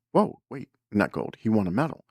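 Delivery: a stunned double take at the news; sudden excited surprise; amazed. Retold or imitated. Amazed on hearing of the medal.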